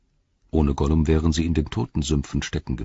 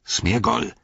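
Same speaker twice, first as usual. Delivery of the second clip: higher, voiced call of SMEAGOL, rising; slightly louder call; 6 semitones higher than usual. A narrator's reading. Frodo repeating his call to Gollum, somewhat louder. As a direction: call Smeagol a little more audibly. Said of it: "wiederholte er etwas lauter".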